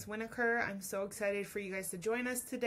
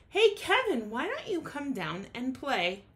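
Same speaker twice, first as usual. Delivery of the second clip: mild shout; 3 semitones higher, 3 dB louder than usual. Acted. Wombat calling up to Kevin to come down and play. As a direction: call up to the tree cheerfully. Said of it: "shouted one day".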